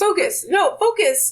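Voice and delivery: high and loud command; insistent. Real, not acted. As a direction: bark it to refocus her. Urging friend back on topic.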